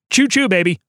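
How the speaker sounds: loud playful train choo choo; playful train whistle call for the Doncic train; mock train call. Imitating a train, hype.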